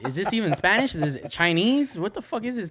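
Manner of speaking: mock baffled. Reacting to fast-talking coworker.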